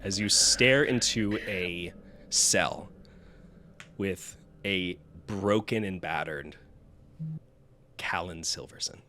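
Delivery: slow, grave scene-setting; game master narration. Acted. Game master revealing a prisoner in a cell, slow narration.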